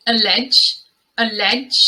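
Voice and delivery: "allege" as uh-LEJ; careful model pronunciation. Shown as a demonstration. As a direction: start "allege" with a schwa. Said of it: "This word is".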